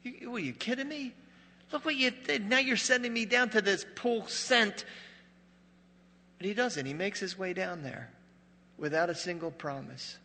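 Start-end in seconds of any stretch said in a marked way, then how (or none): 0.0-4.8 high, indignant mock complaint; a hammed-up blind man acting outraged; with an attitude. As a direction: play him huffy and put out. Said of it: "got an attitude and go".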